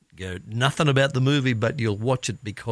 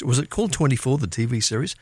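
ordinary delivery

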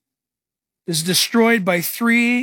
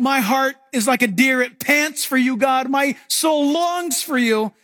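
longing cry; 5 semitones higher, slower than usual. Acted. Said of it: "The psalmist is crying out".

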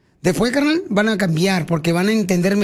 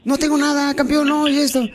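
higher, breezy put-on cheer; faking being happy; 6 semitones higher than usual. Host retelling how he hid sadness from a fan, faked cheer. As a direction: brush it off with forced brightness. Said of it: "yo haciéndola de muy feliz".

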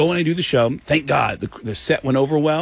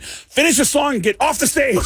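high, raised mock shout; high-pitched exasperated mimicry; retold annoyed order; 12 semitones higher than usual. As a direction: imitate the karaoke host ordering him off. Retold karaoke host's order.

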